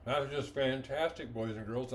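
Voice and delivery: talking with mouth full. Real, not acted. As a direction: speak through a mouthful of egg. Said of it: "I'm sorry for talking with my mouth full".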